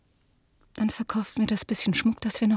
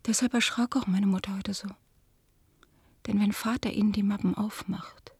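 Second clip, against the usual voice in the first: whispered secret; 4 dB quieter than usual. Acted. Daughter revealing the fake prints to the guest, whispering. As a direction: keep it a hush, guilty and urgent.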